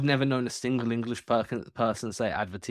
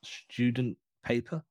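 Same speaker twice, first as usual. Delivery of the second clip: mock sales pitch. Host teasing co-host about his sales job, mock salesman. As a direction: play a laborious cold-caller, word by word.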